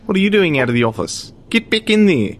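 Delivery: bossy Kiwi boss, fast; dodgy New Zealand accent. Pretend. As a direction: bark it in a bad Kiwi accent. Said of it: "a very dodgy New Zealand accent".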